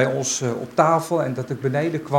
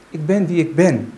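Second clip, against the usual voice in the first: proclaiming; 2 semitones higher, 6 dB louder than usual. Acted. Proclaiming God's own name.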